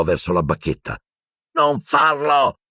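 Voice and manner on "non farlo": shouting. A narrator's reading. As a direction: yell at the cat to stop. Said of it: "urlò Harry".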